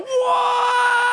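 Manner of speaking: high shouted walrus honk; walrus bellow. Retold or imitated. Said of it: "Here's an impression of a walrus coming".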